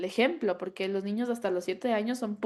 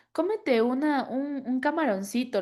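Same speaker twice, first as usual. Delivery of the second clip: coaxing grandfather; 4 semitones higher than usual. Retold or imitated. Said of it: "mi papá le decía como".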